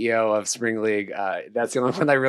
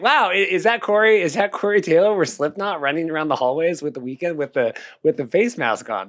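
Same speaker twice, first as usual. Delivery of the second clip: amazed; 4 semitones higher than usual. Retold or imitated. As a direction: gasp out a wide-eyed wow. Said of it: "I was like".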